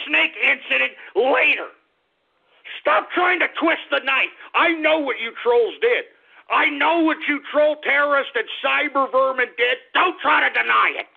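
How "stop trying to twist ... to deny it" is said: raised, higher scolding; scolding trolls. Real, not acted. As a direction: call out the trolls, fed up.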